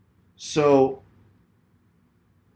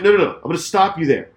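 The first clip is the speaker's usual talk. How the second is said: louder cut-off, settling down; retold firm interruption; 4 semitones higher, 5 dB louder, faster than usual. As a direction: shut down his excuse as re-enacted. Acted quarrel, cutting driver off.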